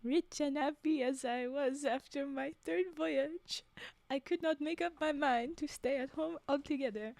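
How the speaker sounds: put-on story read in a light French accent; lightly French-accented storytelling. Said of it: "French accent".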